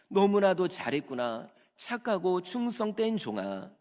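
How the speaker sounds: a master praising his servant with delight; pleased master. Acted. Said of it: "주인도 너무 기쁜 거예요".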